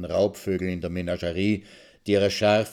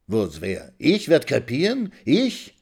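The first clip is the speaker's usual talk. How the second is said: rising much higher; outraged disbelief; 5 semitones higher than usual. Acted. Old woman outraged at being told she'll die, indignant. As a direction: choke on the insult.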